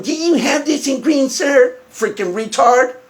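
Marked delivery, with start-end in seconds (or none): 0.0-1.8 mock the customer's question back at them; hammed-up mimicry of a customer's question; mocking imitation. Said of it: "And he starts going".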